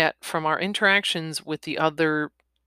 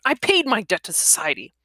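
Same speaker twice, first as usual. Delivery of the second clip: higher-pitched plea; whimpering protest; 4 semitones higher than usual. Acted. Cornered man defending himself to the woman, whimpering protest. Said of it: "he whimpered".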